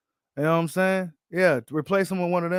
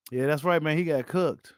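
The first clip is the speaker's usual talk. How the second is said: Adrian Broner voice. Acted. Host agreeing with a viewer about the loss, light impression. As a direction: draw the words out, lightly imitating. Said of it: "in my Adrian Broner voice".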